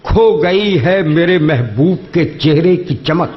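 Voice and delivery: measured, lingering verse delivery; poetry recitation. Acted. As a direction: recite each line slowly for effect. Mushaira couplet recital.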